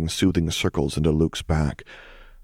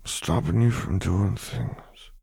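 put-on sleepy child; 2 semitones higher, 3 dB quieter, slower than usual. A narrator's reading.

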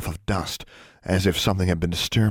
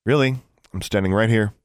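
higher-pitched indignant interjection; 4 semitones higher, 5 dB louder than usual. A narrator's reading. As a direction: protest being ignored. Alexandra objects to being ignored.

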